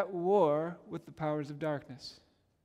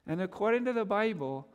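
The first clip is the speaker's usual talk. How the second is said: ordinary delivery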